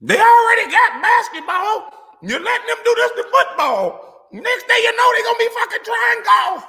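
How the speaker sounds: a hammed-up redneck yelling over a quarterback; mock racist fan rant. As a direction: rant like an outraged good old boy.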